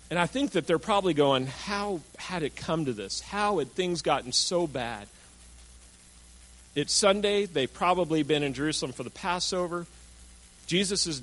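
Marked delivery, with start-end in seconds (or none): 1.5-5.1 sad wondering. Retold or imitated. Disciples voiced in grief.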